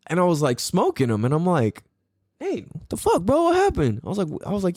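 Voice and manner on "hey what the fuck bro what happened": much higher, gleeful mock-taunt; retold teasing taunt. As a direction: rub it in to the son. Teasing son after outrunning him.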